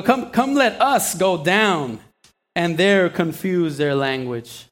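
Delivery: God answering the proud builders, slow and solemn; God declaring. Retold or imitated. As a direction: announce the judgment, measured and weighty. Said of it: "No, no".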